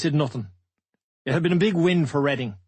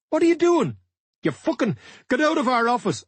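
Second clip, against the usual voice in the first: shouting; 10 semitones higher than usual. Retold or imitated. Reading's director shouting at the manager to get out, furious. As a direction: throw him out of the office at full volume. Hammond yells after the grab.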